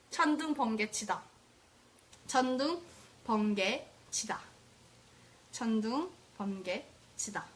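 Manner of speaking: 천둥, 번개 치다 rattled off quickly; rapid-fire tongue twister; fast drill. Shown as a demonstration. Teacher rattles off the tongue twister quickly to the class, fast. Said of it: "I want other people to type it".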